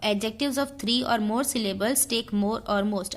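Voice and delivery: slow, deliberate dictation read. Shown as a demonstration. Teacher dictating the rule slowly to students. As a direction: read each word out slowly for notes.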